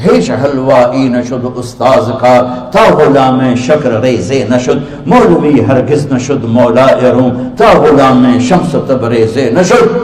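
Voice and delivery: slow, measured poetic recitation; recited Persian verse. Acted. Preacher reciting Rumi's verse slowly to the congregation. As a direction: chant the couplets slowly. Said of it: "میرے شاعر کا کہنا ہے".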